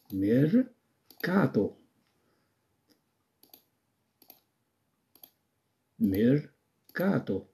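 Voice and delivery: ميركاتو said slowly and softly, syllables apart; slow dictation. Shown as a demonstration. Teacher dictates mercato slowly for the class to write. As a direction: dictate ميركاتو gently for writing. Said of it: "إذن أكتب ميركاتو".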